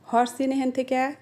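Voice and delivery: regional Sirajganj Bengali accent; Sirajganj dialect. Shown as a demonstration. Telling someone to move away, Sirajganj dialect. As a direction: order it like a Sirajganj local. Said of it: "এটাকে আমরা বলি".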